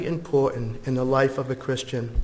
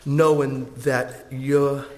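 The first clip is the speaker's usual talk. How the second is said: prayer; 3 semitones lower than usual. Acted. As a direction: pray gently and sincerely. Closing prayer.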